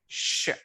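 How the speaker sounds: "Sh" as a bare hushing sound; letter sound. Shown as a demonstration. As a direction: say "Sh" as shh, on its own. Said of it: "T I is pronounced as what?".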